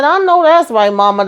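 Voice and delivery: high, delighted "I know that's right"; excited cheer. Real, not acted. Host cheering mama's hair rule, high and delighted. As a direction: hype mama up like a friend.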